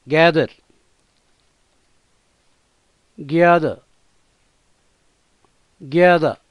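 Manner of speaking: gather with the final r barely sounded; soft final r. Shown as a demonstration. Teacher showing students how to end గ్యాదర్, barely voicing the r. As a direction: say గ్యాదర్ ending on a half-swallowed r. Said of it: "దీన్ని పలికి పలకనట్లుగా పలకాలి".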